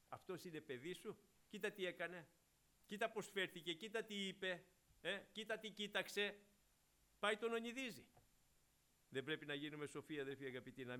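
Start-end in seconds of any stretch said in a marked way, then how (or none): 0.1-6.4 a mildly voiced devil reproaching, rising higher line by line; devil accusing. Devil reproaching God over a believer, lightly mocking. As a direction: lightly play the accuser pointing at every sin. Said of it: "ο διάβολος και ονειδίζει τον Κύριο".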